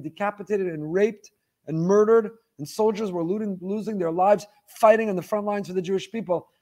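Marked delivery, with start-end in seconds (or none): none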